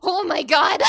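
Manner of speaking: loud laughing scream of shock. Retold or imitated. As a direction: scream it out in delight. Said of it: "I actually screamed".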